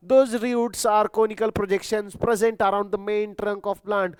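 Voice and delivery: very slow, word-by-word dictation; teacher dictating notes, very slow. Shown as a demonstration. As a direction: spell it out slowly for note-taking. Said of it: "reads definition slowly for dictation".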